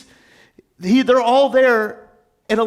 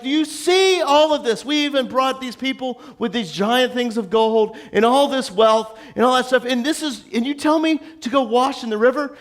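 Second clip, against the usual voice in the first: mock indignation, pitched up; mildly angry, higher-voiced rant; 5 semitones higher than usual. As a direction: imitate an affronted bigwig protesting. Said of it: "He's, like, angry".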